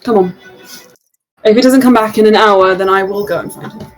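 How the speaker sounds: lightly voiced Loran, earnest and measured; hint of a worried mentor voice; Loran in character. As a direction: speak as a concerned old friend, steady.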